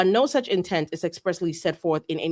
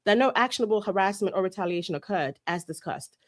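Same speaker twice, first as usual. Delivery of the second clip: put-on British accent; 2 semitones lower than usual. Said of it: "I'm doing it for the rest of the page".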